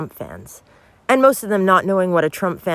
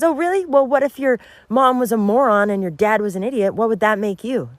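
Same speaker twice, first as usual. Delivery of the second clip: high-pitched, lightly acted challenge; challenging teacher; 6 semitones higher than usual. Sixth grade teacher challenging little Johnny, pointedly.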